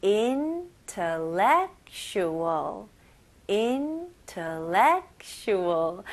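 Intellectual stretched out very slowly, stress on IN and LEC; slow syllable-by-syllable. Shown as a demonstration. Teacher modeling Intellectual for the class, very slowly. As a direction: draw out Intellectual, leaning on in and lec. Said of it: "여기 잘 들어보세요".

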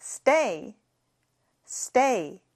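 "Stay" said alone, clear, falling; model pronunciation. Shown as a demonstration. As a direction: let them copy "Stay". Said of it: "같이 발음해 볼게요". ("Stay" 따라 하기 시범)

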